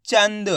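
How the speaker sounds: "चंद" as one joined syllable with a quick half n; blended word. Shown as a demonstration. Teacher joining the letters for students, blended word "चंद". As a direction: join the sounds of "चंद", no vowel after the n. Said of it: "तो मिलके बन जाएगा".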